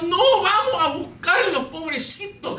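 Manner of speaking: high, slow, half-crying plea; imitating near tears. Preacher imitates his sister begging to find the dogs, near tears. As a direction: mimic a pleading sister, voice near breaking. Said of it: "mi hermana casi llorando".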